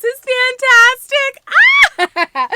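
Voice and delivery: loud, high drawn-out fantastic; a real squeal of joy; thrilled. Real, not acted. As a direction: burst out with delight. Unboxing a loved gift.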